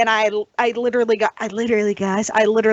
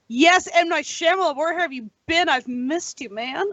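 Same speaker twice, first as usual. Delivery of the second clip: retold welcome back; 2 semitones higher than usual. Fan greeting a director back to form, retold welcome back. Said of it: "I was like".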